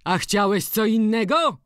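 high, loud ironic question; mock him with a rising question. A narrator's reading. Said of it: "Zaśmiał się ironicznie". (ironicznie, z kpiną)

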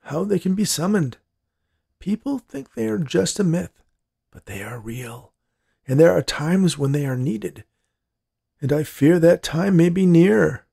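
put-on high-pitched, foreboding old man voice; grave old grandpa. A narrator's reading. Grandpa reveals the dryads' secret to his granddaughter, grave.

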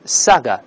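saga ending in an open uh. Shown as a demonstration. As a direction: say saga with no tongue hook at the end. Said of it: "舌尖不要勾".

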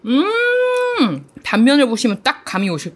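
talking between bites; tags: chewing while talking. Real, not acted. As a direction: mouth partly full. Seen 0: Bit tofu ball at -4, lips closed, chewing through the words.

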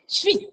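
high, soft squeaking rabbit sound. Shown as a demonstration. Teacher shows children a rabbit's squeak, high and soft. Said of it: "रॅबिटचा आवाज कसा असतो".

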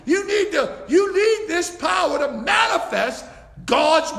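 fervent sermon delivery; preaching. Acted. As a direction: press the point home from the pulpit. Preaching at full force.

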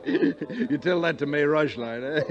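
chuckling through slow words; amused with himself; laughing at his own joke. Acted. Colonel jokes with the detective about the bride's gift, laughing.

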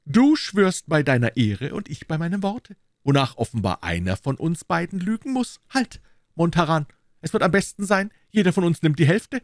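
high, animated proposing voice; Aramis. A narrator's reading. Musketeer proposes halving the cloth, high and animated.

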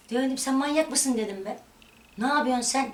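retold angry outburst. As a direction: snap back at mother as if it is happening again. Retelling the fight with her mother. (yüksek ve sert, kavgayı canlandırarak)

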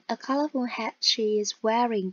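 "A colourful hat she is wearing" with the tune falling to the end; ngữ điệu đi xuống; falling intonation. Shown as a demonstration. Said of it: "người ta đọc ngữ điệu đi xuống".

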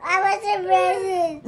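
tearful answer; real crying. Real, not acted. Frightened boy answering through tears. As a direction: sob out the words.

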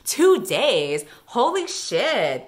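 slow, stunned amazement; can't believe it; amazed. Real, not acted. Amazed by two days.

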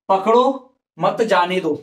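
slow, break after पकड़ो, then मत जाने दो together; pause after पकड़ो. Shown as a demonstration. Teacher reading the example to students, pause after पकड़ो. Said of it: "ये विराम चिन्ह यहां पर लगाता".

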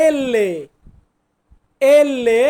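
এল্লে with a long double l; Italian letter name. Shown as a demonstration. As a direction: say এল্লে, the ll held. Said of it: "এলকে আমরা বলবো". (Italian উচ্চারণে এল্লে)

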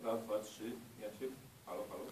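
muffled voice from the next room; distant and muffled behind thick walls; through a wall. Real, not acted. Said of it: "Słyszymy się rzeczywiście bardzo, bardzo stłumionym głosem". (stłumiony głos zza ściany)

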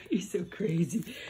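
soft whispered aside to the dog. Real, not acted. Owner whispering fondly to her dog. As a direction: breathe it to her.

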